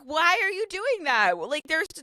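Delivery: lightly voiced exasperated husband; mock husband. Husband questioning her exit, mock exasperated. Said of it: "he's like".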